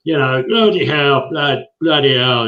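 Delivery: put-on lightly done rough London Docklands accent, slow; a hint of a rough London Docklands accent on bloody hell. British fan imitating the actor's rough London accent, lightly. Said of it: "rough accent".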